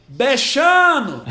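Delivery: calling out to a cat. Retold or imitated. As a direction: call the kitty, slow and high.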